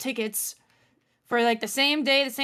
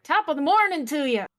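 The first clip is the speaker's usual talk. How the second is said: Irish accent; 4 semitones higher, 3 dB louder than usual. Shown as a demonstration. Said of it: "in your best Irish accent".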